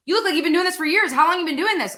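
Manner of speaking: high, quick excited fan voice; mock-amazed fan; excited praise. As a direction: gush like an amazed viewer. Fans praising her, acted quote.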